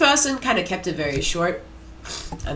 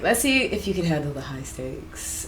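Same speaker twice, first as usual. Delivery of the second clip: lower, soft, sultry purr; hushed sultry temptress; 3 semitones lower, 5 dB quieter than usual. Acted. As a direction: say it like a low seductive dare. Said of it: "her voice is, like, low and sultry".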